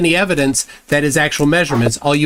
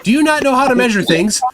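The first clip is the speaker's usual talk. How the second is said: higher-pitched, incredulous lecturing; exasperated; 5 semitones higher than usual. Real, not acted. Debater challenging opponent on how measuring works, exasperated. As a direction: spell it out as if it's obvious.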